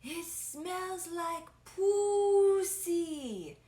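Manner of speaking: put-on high shrieking Filipino mom accent. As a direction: scream it like a Filipino mom, stretched out. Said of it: "screams in her Filipino accent".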